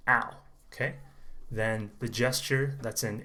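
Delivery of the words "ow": ow like a cry at being hit; OW sound. Shown as a demonstration. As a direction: model ow, ah sliding into oo. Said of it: "like you get hit".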